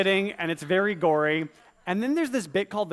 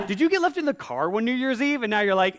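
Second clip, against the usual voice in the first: laughing question; 6 semitones higher, 4 dB louder than usual. Real, not acted. Laughing while asking.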